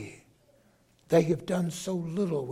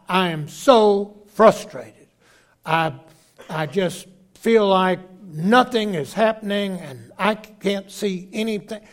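frustrated outburst; 5 dB louder than usual. Retold or imitated. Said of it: "couldn't hold back my anger".

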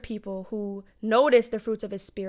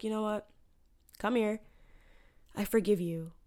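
gentle forgiveness. Retold or imitated. Voicing Jesus gently forgiving.

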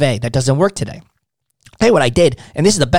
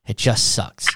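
defeated; 4 semitones lower than usual. Shown as a demonstration. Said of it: "Act defeated within their means".

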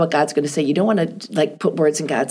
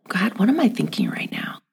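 whispered prayer; 3 semitones higher than usual. Retold or imitated. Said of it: "I'm like".

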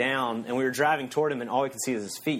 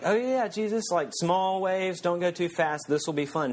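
naive mock; 6 semitones higher than usual. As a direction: say it like someone who has no idea. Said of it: "we're sitting there saying".

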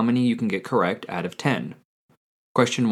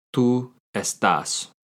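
slow, clear repeat of Tú estás; teacher repeating the answer slowly; slow model answer; 2 semitones higher, slower than usual. Shown as a demonstration. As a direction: repeat it slowly for the student to copy. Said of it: "How do you say "you are" in Spanish".

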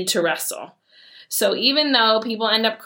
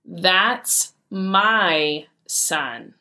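firm dad; much slower than usual. Retold or imitated. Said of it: "And he goes".

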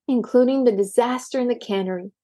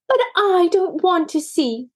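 crying protest; 7 semitones higher than usual. A narrator's reading. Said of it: "cried Maisie".

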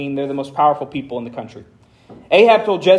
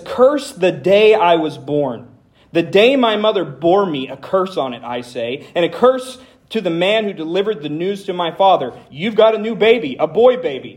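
dramatic scripture reading. Acted. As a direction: read it like a man cursing his birth. Pastor reads Jeremiah's lament aloud.

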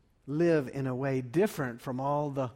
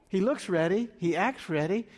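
louder and higher, punching "looks" and "acts"; emphatic repeat; 5 semitones higher, 4 dB louder than usual. Shown as a demonstration. Pastor repeating the point to the congregation, emphatic and louder. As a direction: hammer the repeated line home.

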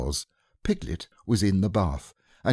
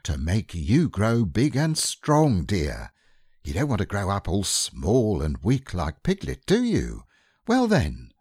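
coaxing mother. Acted. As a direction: coax the child. Kanga voiced in story.

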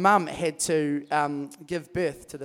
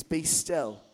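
calm command; 4 dB quieter than usual. Acted. Jesus to the storm, soft calm command. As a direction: still the storm quietly. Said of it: "he speaks to the storm".

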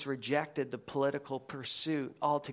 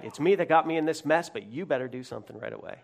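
impatient prayer; 2 semitones lower, much faster than usual. Retold or imitated.

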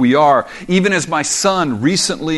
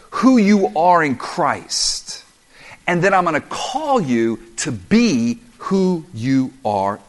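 slow, earnest Paul quote; slower than usual. Acted. Paul addressing believers, voiced quote.

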